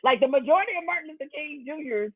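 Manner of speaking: high, amused voice breaking into laughter; laughter bubbling through the words; laughing while talking. Real, not acted. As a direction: talk through the laughs, pitch riding up. Host laughs while making his point.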